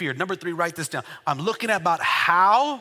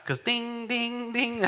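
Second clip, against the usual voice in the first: sung-out car warning dings; soft, sustained ding, ding, ding; imitated seatbelt chime; 3 semitones higher, 6 dB quieter, much slower than usual. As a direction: mimic a car's seatbelt chime. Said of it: "your car keeps doing that".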